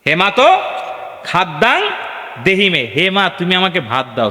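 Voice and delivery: mock Sanskrit plea. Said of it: "এরকম বলবেন".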